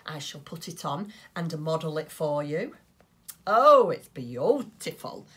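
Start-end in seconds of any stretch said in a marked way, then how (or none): 3.5-5.3 delighted. Real, not acted. Modelling her finished mitten.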